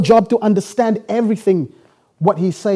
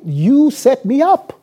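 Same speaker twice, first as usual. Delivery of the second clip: telling him straight; 3 semitones higher, slower than usual. Retold or imitated. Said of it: "I'ma tell him straight".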